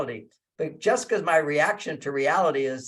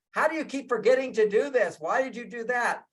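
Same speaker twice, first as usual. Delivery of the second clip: nagging complaint; 5 semitones higher than usual. Retold or imitated. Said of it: "As opposed to".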